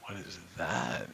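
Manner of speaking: hushed whisper. Real, not acted. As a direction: whisper it, close to the mic. Sneaking up on hidden hunting grounds.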